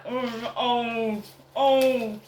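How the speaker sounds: put-on moaning oh, oh, oh; mock garbling. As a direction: mimic their babbling, drawn out. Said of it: "They garble rubbish out of their mouth like".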